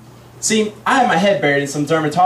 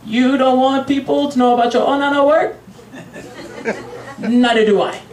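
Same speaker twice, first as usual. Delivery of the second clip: raised, deliberate confrontation; confronting him in Mandarin; 8 semitones higher than usual. Acted. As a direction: call it across the counter as a challenge. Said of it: "I said to him in Mandarin".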